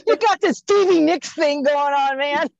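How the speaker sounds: loud, laughing tease; laughing while teasing. Real, not acted.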